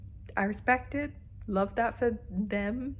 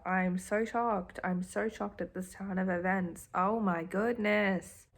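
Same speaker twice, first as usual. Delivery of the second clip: slow, deadpan mock shock; sarcastic drawled disbelief; slower than usual. Real, not acted. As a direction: fake shock, dry as dust. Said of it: "I'm sound sarcastic".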